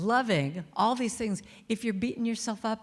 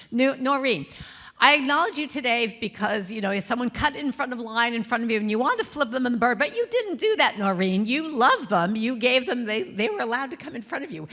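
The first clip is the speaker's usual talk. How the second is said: lightly voiced New York accent, louder; a hint of a brash New Yorker praising herself; 5 semitones higher, 5 dB louder than usual. Noreen to her mirror, a light New York accent. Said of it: "She's very New Yorkie".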